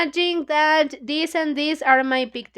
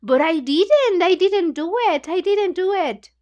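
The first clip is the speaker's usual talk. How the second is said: rising, higher pleading denial; Paul protesting; 5 semitones higher, 3 dB louder than usual. Retold or imitated. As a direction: plead innocence like a caught boy. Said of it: "Paul was like".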